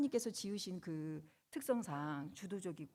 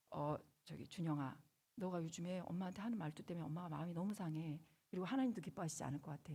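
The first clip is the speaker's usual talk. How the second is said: calm appeal. Retold or imitated. Mother reasoning gently with her son Junyoung. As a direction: talk it through kindly with your son. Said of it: "기분 좋은 상태에서".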